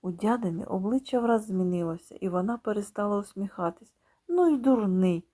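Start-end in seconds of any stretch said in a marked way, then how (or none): 4.3-5.2 louder annoyed snap; angry. Acted. Aunt snapping angrily at the boy. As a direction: scold him sharply. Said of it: "каже сердито".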